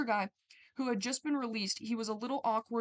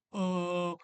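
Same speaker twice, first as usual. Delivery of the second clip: annoyed manager voice; 4 semitones higher, 7 dB louder than usual. Retold or imitated. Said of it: "your manager's like".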